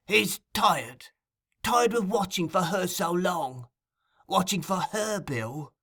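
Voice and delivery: high, deliberate "He's tired", dropping on "Bill"; slow, marked emphasis. A narrator's reading. Fagin insinuating to Sikes, stressing "watching for her" slowly. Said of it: "speaking slowly and with marked emphasis".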